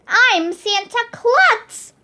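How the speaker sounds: slow, high, hammed-up announcement; jolly Santa reveal. Principal unmasking himself to the kids, slow hammed-up reveal. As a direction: stretch it out like a grand reveal.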